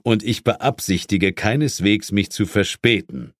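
lightly voiced stern boss, a touch of stiff superiority; a hint of a British chief putting his agent in his place; Sir James. Chief rebuffs his inspector on Christmas Eve, lightly stern.

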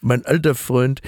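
a hint of the old chancellor calming things; Helmut Kohl voice. Playing Kohl in the mock podcast, light chummy voice.

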